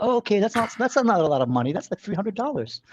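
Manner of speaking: a light, bad American accent for his girlfriend. His girlfriend brushing off the bribe, lightly American-accented. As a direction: put on a clumsy American accent, slowing at the end. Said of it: "my American accent is retarded".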